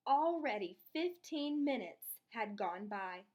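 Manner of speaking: lively read-aloud storytelling; expressive children's story narration. A narrator's reading. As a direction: read it to the class like a picture book. Teacher reads story aloud.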